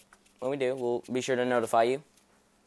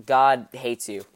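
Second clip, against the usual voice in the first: menacing devil; 5 dB louder, slower than usual. Acted. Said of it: "he'll be like".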